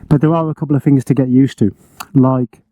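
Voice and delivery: panting between words, winded; out of breath. Real, not acted. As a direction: talk while still catching breath. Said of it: "I'm out of breath, bloody hell".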